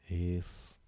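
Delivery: halting, widely spaced syllables. Shown as a demonstration. Teacher writing the word for pupils, syllable by syllable. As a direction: break "respiratórios" into syllables with long gaps.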